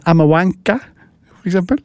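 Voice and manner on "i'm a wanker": British accent. Shown as a demonstration. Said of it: "litt British accent".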